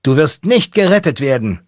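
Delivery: high, loud yell over the blaring horn; shouting. Acted. Mechanic yelling over a blaring horn, shouting. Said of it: "der Mechaniker schreit".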